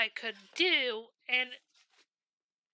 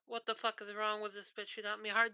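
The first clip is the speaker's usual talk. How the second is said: softer, scornful mutter; muttered disgust; 2 semitones lower, 7 dB quieter, faster than usual. Shown as a demonstration. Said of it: "this isn't me going like".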